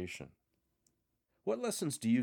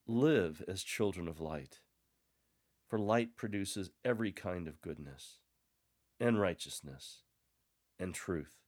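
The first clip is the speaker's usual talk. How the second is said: scripture reading. Shown as a demonstration. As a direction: read it like a gentle encouragement. Reads scripture as a model proclamation.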